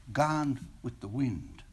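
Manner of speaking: light, breezy and slow; breezily. Acted. Senior girl to the boy, breezy and light. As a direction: toss off Gone with the Wind lightly and softly. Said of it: "she said breezily".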